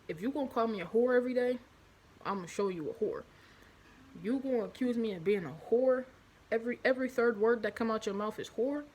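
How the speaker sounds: ex's defiant retort. Retold or imitated.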